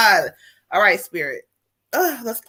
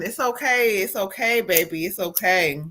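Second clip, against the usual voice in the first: soft, tender reassurance; soothing; 2 semitones lower, 5 dB quieter than usual. Real, not acted. Medium calming the upset spirit, soft and tender.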